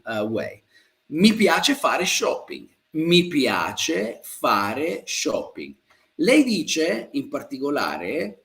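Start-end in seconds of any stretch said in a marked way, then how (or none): 2.9-5.7 very slow, word by word; slow model sentence. Shown as a demonstration. Teacher repeats a student's answer for learners, very slowly. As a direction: stretch out each word with pauses between.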